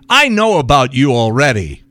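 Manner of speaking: mildly snippy imitation of a manager. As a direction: cut someone off, snippy, in a mock retelling. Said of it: "she starts getting snippy with me".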